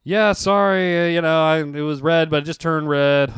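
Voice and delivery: light acted sheepish admission; retold confession. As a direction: own up to the cop, stumbling a little. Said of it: "and I'm like".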